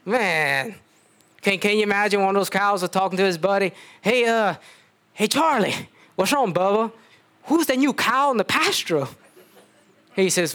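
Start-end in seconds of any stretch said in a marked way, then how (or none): 4.0-9.1 cow voice. Acted. Cow voiced in bible story.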